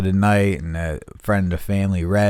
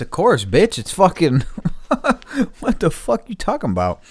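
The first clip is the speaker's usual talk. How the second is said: high, laughing mock outrage; laughing disbelief; 10 semitones higher than usual. Mocking the clerk over the huge bill, laughing and high. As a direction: laugh through it, can't believe the price.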